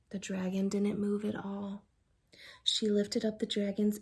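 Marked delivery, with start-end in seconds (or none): 0.1-1.8 hushed whispered narration. A narrator's reading. Narrating the sleeping dragon, whispered. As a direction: keep it down, he's asleep.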